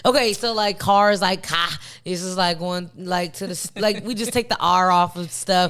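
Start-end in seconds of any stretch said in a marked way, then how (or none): 0.0-1.8 Chicago accent demo. Shown as a demonstration. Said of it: "What would you say".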